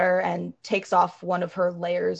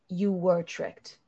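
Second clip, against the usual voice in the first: reassuring. Acted. Azara consoling the elf, lightly voiced and tender.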